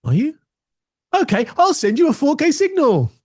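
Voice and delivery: high, cheerful gadget voice; computer replying. Retold or imitated. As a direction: answer like an eager, helpful computer. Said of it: "and the computer says".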